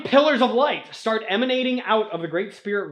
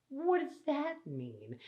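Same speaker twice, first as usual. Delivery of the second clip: high, slow, puzzled and much softer; bewildered question; 8 semitones higher, 9 dB quieter, slower than usual. Acted. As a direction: ask it lost and small. Tahu is confused by the mask.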